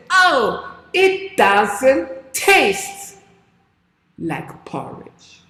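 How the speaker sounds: puzzled giant. Acted. Giant tastes sand.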